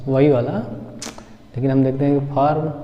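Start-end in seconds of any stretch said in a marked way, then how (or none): 2.3-2.7 फार्म with the r sounded, "phaarm"; the rejected फार्म, r clearly in it; r pronounced. Shown as a demonstration. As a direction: say फार्म the Indian way, r heard. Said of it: "हम वो फार्म बोलते हैं".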